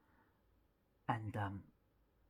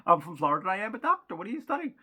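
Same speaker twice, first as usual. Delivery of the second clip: smug doctor; 5 semitones higher, 9 dB louder than usual. Retold or imitated. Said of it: "he turns to me and he says".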